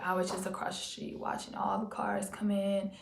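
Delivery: whispered, conspiratorial aside; hushed aside. Real, not acted. Telling viewers how she watched from across the street, whispered. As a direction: let them in on a secret, whispering. Secretly watching the old job.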